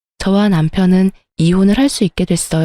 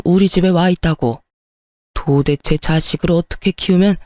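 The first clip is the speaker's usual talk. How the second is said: lightly voiced older man, gruff and fed up; a hint of an exasperated father barking down the line; fuming old father on the phone; 2 semitones lower than usual. Wife's father phones his friend to fetch his son, mildly gruff.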